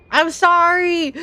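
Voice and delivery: high, loud, long-drawn sorry; wailed apology. Real, not acted. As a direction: whine it out, stretching the vowels. Exaggerated apology for mispronouncing.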